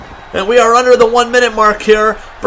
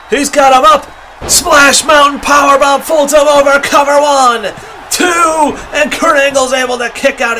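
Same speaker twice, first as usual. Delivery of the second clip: excited play-by-play; 3 semitones higher than usual. Real, not acted. Big move, near fall call.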